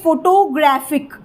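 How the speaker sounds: "फोटोग्राफिक" with stress on "ग्राफिक"; third-syllable stress. Shown as a demonstration. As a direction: lean on "ग्रा" in "फोटोग्राफिक". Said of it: "मैंने ग्राफिक पे stress दिया". ("फोटोग्राफिक" में "ग्राफिक" पर ज़ोर)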